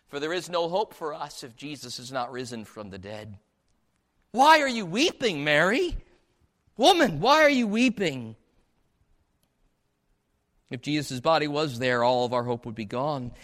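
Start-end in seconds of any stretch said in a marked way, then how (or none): 4.3-8.4 acting out a puzzled angel; emphatic, louder incredulous question; perplexed. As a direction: press the question in mock bafflement. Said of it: "So the angels are perplexed".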